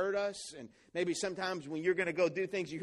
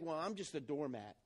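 self-pitying; 6 semitones lower, 9 dB quieter than usual. Retold or imitated. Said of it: "you begin to think".

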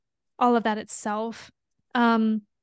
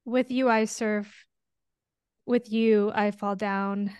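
quoting the chorus; slower than usual. Shown as a demonstration. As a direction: say it slowly, with weight. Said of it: "But the part with".

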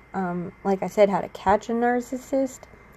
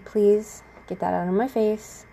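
polite plea, firmer on the first word; calm, controlled request. Retold or imitated. Asking the laughing ex once more, calm controlled plea. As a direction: repeat the request evenly, holding back anger. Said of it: "I'm calm, and I'm relaxed as much as possible".

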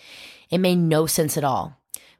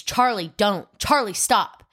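high, urgent mock yell of a father; retelling a father's panicked shout, mildly raised; retold scream; 5 semitones higher than usual. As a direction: cry out his name, begging him to stop, half-acted. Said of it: "He screams".

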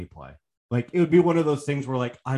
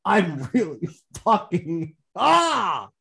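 mock frustrated groan; 4 semitones higher, much slower than usual. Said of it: "I'm glad we're discussing this live".

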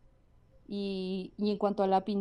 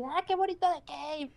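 sarcastic; 7 semitones higher than usual. Retold or imitated. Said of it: "Y yo estaba así".

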